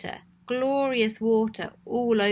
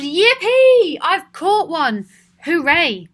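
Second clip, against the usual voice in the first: put-on much higher, louder joyful child; triumphant yell; 7 semitones higher, 10 dB louder, slower than usual. Child catching Cecil, yelling with much higher joy. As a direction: shout it out like a kid winning a prize. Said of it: "a triumphant child yelled".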